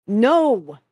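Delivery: loud, high, firm refusal; authoritative bark. A narrator's reading. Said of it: "barked with uncharacteristic authority".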